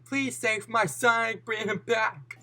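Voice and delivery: high, soft pleading voice; pleading mother. Acted. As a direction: beg gently for your son's rescue. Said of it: "And his mother said".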